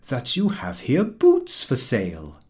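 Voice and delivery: awkward courtly sentence; phrase-book formality. A narrator's reading. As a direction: read it like a language book. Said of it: "It ran".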